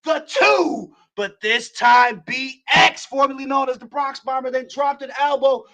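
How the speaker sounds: winded from calling the action; out of breath. Real, not acted. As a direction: push the words out short of breath. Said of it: "as I catch my breath".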